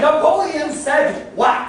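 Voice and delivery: high, very loud, drawn-out question; exasperated shout. Acted. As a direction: bellow it back slowly in a fury. Still furious, shouts back a question.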